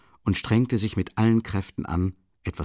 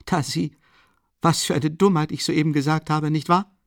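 higher, with a short laugh; a sudden laughing remark, higher voice; short quick laugh; 8 semitones higher, 4 dB louder than usual. Acted. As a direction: laugh off your own slip. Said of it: "lachte er schnell und kurz auf".

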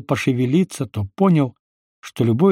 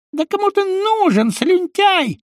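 very high, squeaky contemptuous voice; disgusted sneer. A narrator's reading. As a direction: spit out "слюнтяй" with disgust. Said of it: "брезгливо скривился дядя Коля".

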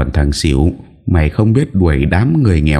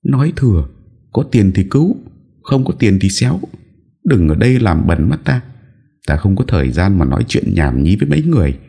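contemptuous; 6 semitones higher than usual. Acted. Haughty girl refuses poor parents.

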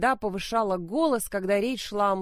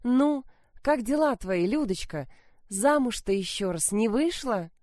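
syrupy, fake-sweet prying; sugary voice; 4 semitones higher than usual. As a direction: ask sweetly, like sharing a secret. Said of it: "спрашивают как бы по секрету елейными приторными голосами".

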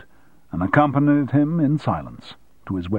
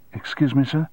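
puzzled; 5 semitones higher than usual. Acted. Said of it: "said the puzzled bellboy".

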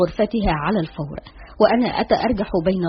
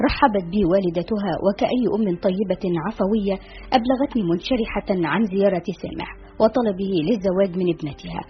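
story narration. A narrator's reading.

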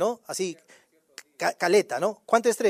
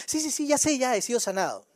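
impaciente; 6 dB quieter than usual. Retold or imitated. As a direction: cut in as if you already know it. Acts out impatient person cutting in. (imitando a alguien impaciente, más agudo)

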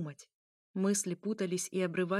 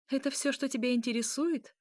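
higher-pitched scornful question; contemptuous; 6 semitones higher than usual. A narrator's reading. Princess questioning the vampire's motives, contemptuous. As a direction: ask with a touch of disdain. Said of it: "скривив презрительно губы".

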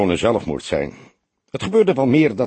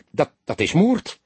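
higher, stammering disbelief; stammering in shock; 8 semitones higher than usual. A narrator's reading. Detective finding the strangled girl, stammering in shock. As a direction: stumble over the words, stunned. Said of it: "stamelde hij eerst".

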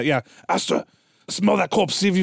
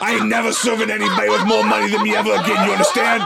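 raised, laughing, hammed-up tough talk; mock-tough refusal; 5 semitones higher, 3 dB louder than usual. Dog walker refusing rich employers, mock-tough. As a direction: build into a laughing mock rant.

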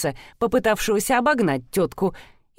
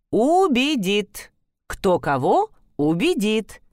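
unruffled; slower than usual. Acted. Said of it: "Вис невозмутимо ответил".

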